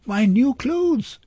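very high, drawn-out squeal; high-pitched squealed protest. A narrator's reading. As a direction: squeal it slowly in dismay. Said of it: "she squealed".

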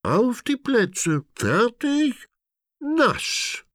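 high gleeful countdown cry; excited call. A narrator's reading. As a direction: start the race like a game leader.

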